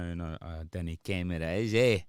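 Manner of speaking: lightly put-on Scottish accent, playful; a hint of put-on Scottish; mock Scottish accent. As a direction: pretend to be broad Scottish for a laugh. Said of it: "I'm pretending I'm Scottish now".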